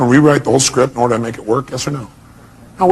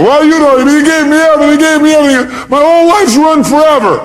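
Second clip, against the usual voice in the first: high, wailing mock complaint; distraught woman; 11 semitones higher, 4 dB louder than usual. Speaker imitating a woman mourning her breakup, distraught. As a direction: wail it like a hammed-up heartbroken victim.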